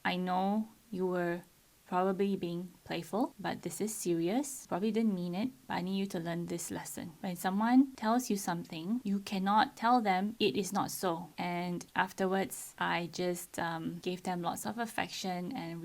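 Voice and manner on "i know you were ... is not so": softened tone. Retold or imitated. Parent softening tone to six-year-old after firmness, gentle. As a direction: ease off and reassure. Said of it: "softened my tone".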